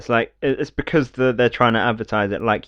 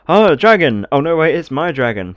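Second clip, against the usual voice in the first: higher-pitched mock-heroic exclamation; mock cocky dude; 6 semitones higher, 5 dB louder than usual. Cocky dude spotting a dragon, mock-heroic exclaiming. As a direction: act out a cocky game hero. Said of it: "really cocky dude".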